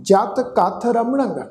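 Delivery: ਰਮਣੰ said slowly with a nasal ending; careful recitation. Shown as a demonstration. Teacher showing sangat how ਰਮਣੰ sounds, slow. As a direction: draw out ਰਮਣੰ, nasal at the end. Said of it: "ਉਚਾਰਨ ਹੋਏਗਾ ਰਮਣੰ".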